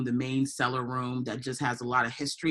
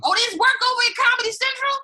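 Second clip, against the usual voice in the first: high, fast fake surprise; mock surprise; 6 dB louder, much faster than usual. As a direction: squeal it like big news.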